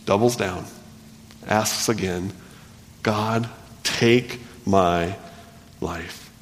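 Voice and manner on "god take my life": very slow, fading to almost nothing; weary despair. Acted. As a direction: let the words sink away, very slow. Jonah asking to die.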